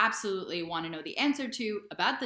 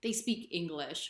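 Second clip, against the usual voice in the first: high-pitched, incredulous retort; mock astonishment, pitched well up; almost shocked; 7 semitones higher than usual. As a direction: imitate shocked locals stating the obvious. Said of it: "almost shocked".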